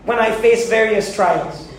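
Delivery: a hint of a petulant believer asking why; imitating a complaining believer. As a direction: play the reluctant believer protesting. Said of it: "have you ever asked the question".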